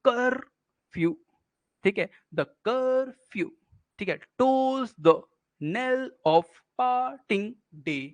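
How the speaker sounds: "the knell of parting day" very slow, split into syllables with pauses; measured metrical reading, "par-ting" pulled apart; syllable-by-syllable scansion. Shown as a demonstration. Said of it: "ऐसे पढ़ेंगे ना, तो आपको समझ में आएगा".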